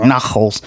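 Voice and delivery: imitated Jewish-mom way of saying Knuckles; stereotypical Jewish mom pronunciation. Repeating the mom's odd name for Knuckles, stereotypical Jewish pronunciation. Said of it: "Why are you saying like this?".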